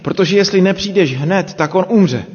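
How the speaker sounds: mild urgency, pitch jumping up on the pleas; desperate plea. Acted. Sisters begging Jesus to come quickly, mildly desperate. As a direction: plead for him to hurry, without raising the volume. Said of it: "začíná zoufalým vzkazem".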